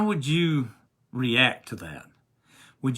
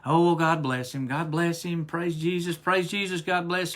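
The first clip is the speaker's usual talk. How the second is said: imitating old church ladies; 3 semitones higher than usual. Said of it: "you see those little old ladies".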